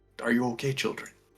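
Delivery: hushed, soft half-whisper with no voice. Game master's hooded character lowering his hood to ask the children, half-whispering. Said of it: "and whisper".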